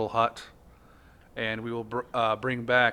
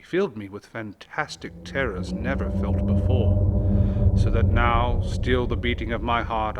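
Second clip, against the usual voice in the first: dramatic poem reading. Acted. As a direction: read it like a candlelit ghost story. Reads The Raven aloud.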